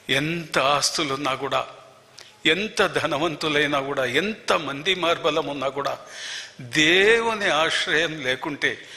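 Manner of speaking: slow earnest preaching. Acted. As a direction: draw each phrase out slowly, weighty and earnest. Preaching the lesson slowly.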